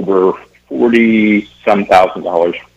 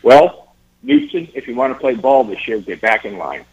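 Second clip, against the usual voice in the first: mock official's retort; 4 semitones higher than usual. Tryout official sends Al back in line, mock dismissive retort. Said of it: "And the guy goes".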